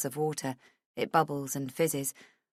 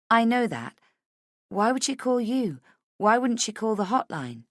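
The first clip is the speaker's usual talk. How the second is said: higher-pitched, pressing questions; agitated, raised pitch; impatient questioning; 6 semitones higher than usual. Acted. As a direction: demand an explanation. Woman challenges his surprising news.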